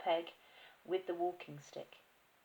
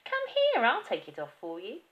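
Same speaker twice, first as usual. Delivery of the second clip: high, loud bossy call; the wife, loudly, grabbing the hat; 5 semitones higher, 11 dB louder than usual. Acted. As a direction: bark it at him high and loud. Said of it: "his wife said".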